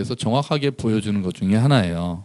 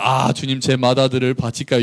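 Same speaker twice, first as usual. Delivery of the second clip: mock piety. Worshipper humbly offering a firstborn to the Lord, pious. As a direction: ask it humbly, like a reverent prayer. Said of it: "이런 게 아니라".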